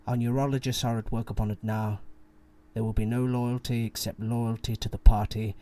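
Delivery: put-on menacing RP accent reading; cold, precise RP accent; scary RP accent. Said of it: "I'll do it in a very scary R P accent".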